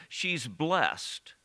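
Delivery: "blessed" as one syllable, BLEST; emphasis on first part. Shown as a demonstration. Preacher on human beings, "blessed" said as BLEST. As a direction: land "blessed" as a single beat, BLEST. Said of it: "I put the emphasis, or try to, on the first part".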